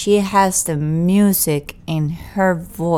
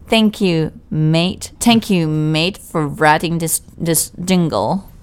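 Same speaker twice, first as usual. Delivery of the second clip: badly faked British accent; clumsy mock-British thanks; slower than usual. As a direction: attempt a British accent, not very well. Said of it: "very bad English accent".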